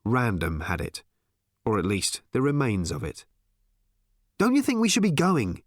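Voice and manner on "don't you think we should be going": insistent. Acted. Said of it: "he said insistently".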